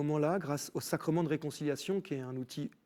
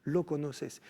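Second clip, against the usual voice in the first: lightly voiced Mexican Spanish prayer, blessing a man; a Frenchman praying over him in Mexican Spanish. Retold French stranger's blessing, praying in Mexican Spanish. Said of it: "Il se met à parler ... en espagnol".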